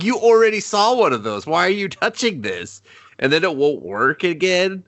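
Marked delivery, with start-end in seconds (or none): 0.0-2.8 mock exasperation. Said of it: "I'm like".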